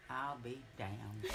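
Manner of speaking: slow, low, disgusted mutter. Retold or imitated. Older brother hearing about the secret wedding, slow and disgusted. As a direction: let the disgust drag out. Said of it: "Just the most disgusted sounding".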